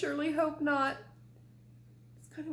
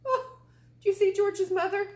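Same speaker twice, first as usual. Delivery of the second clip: high, louder laughing delight; 8 semitones higher, 7 dB louder than usual. Real, not acted. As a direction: laugh through the question. Laughing at fainting.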